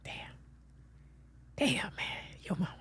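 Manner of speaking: soft, breaking under real tears; barely holding back crying; choked-up grief. Real, not acted. Guest, grieving the host's late mother, quietly choked up. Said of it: "I'm getting emotional".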